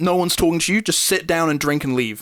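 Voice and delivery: deliberately nasty, mean and rude tone. Retelling how a woman answered a friendly hello: imitating someone being mean. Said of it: "she was trying as hard as possible to be mean".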